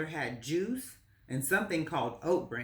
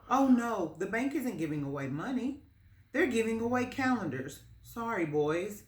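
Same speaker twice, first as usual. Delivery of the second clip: lightly voiced friendly man, a bit higher; kindly bank man; 6 semitones higher than usual. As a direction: gently correct the boys.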